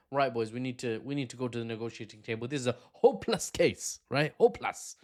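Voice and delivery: lightly put-on accent for Ukrainian leaders. Ukrainian leadership conceding to the boys, lightly put-on accent. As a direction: quote the boys in a mild mock accent. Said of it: "Not sure why they have that accent".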